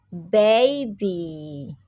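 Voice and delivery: put-on baby said clearly, BAY-bee; correct baby. Shown as a demonstration. Teacher giving pupils the correct baby. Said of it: "Can you say baby?".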